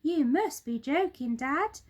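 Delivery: put-on children can't believe it; astonished children. A narrator's reading. Children disbelieve.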